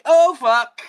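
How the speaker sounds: sudden high cry of pain. Real, not acted. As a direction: yelp as it hurts. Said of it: "the hurts".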